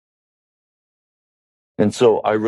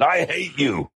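put-on high, thin child's voice spitting it out; angry little girl; 7 semitones higher, 4 dB quieter than usual. Six-year-old daughter tells her father she hates him, high childish hiss.

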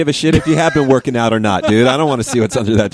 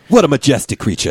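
nature narrator; 3 semitones higher than usual. Pretend. Joins the nature documentary bit.

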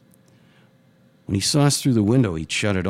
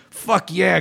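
higher, excited shout; yelled back; 9 semitones higher, 4 dB louder than usual. A narrator's reading. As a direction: whoop it back over the music. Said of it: "God yelled back".

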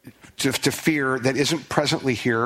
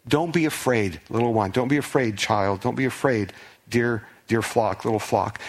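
kindly reassurance; 2 semitones lower than usual. Pretend. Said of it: "God is coming alongside in kindness".

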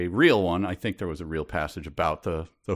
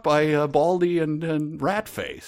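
high, loud, baffled disbelief; what the hell, pitched way up; incredulous; 8 semitones higher, 3 dB louder than usual. Real, not acted. Reader baffled by the heroine's reaction, high and incredulous.

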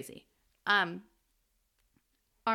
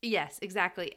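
ordinary talk, nothing marked

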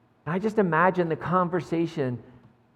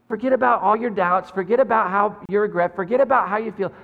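urgent plea; 3 semitones higher, 4 dB louder than usual. Acted. Jesus urging Peter in retelling.

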